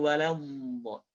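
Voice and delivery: slow "waladdo", open la and heavy final do; "waladdo" with pure A then thick do; perfect la, thick do. Shown as a demonstration. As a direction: stretch "waladdo", rounding only the ending. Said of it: "masukkan do-nya tebal".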